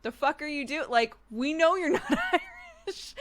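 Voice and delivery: high, loud Irish pub guy jab, breaking into laughs; Irish accent laughed through; Irish bloke heckling, laughing; mock Irish accent. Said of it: "as an Irish person".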